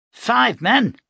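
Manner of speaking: sharp, high, loud disbelief; can't believe the number; stunned disbelief. Acted. Captain hearing the preacher killed five, stunned. Captain shocked at the kill count.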